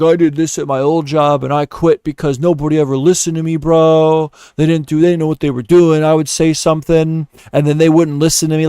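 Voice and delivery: lightly mocking a cocky complainer, pitched a bit up; mock know-it-all grumble; self-important job candidate. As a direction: imitate a man who loves himself griping. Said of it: "This guy just loves himself".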